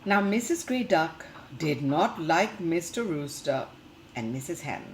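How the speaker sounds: lively storybook reading for little ones; reading to children. Acted. Teacher reading a picture book to the class, lively storytelling. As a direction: read the tale brightly to the class.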